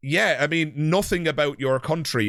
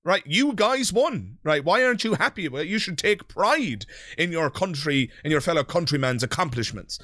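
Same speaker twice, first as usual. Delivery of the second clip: mock patriotic pushiness; 4 semitones higher than usual. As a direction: lecture them to take pride, tongue in cheek. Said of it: "It's kind of like, patriotism projection".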